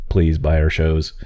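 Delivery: slow mock pleading pitch; mock sales pitch. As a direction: beg like a company ad. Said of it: "Don't say it like that".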